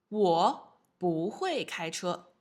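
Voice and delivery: slow model sentence. Shown as a demonstration. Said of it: "What does 不会 mean?".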